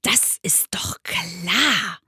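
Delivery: slow, breathy sly fox; whispery fox, drawing out the words; half-whispered animal character. Acted. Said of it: "sagte der Fuchs".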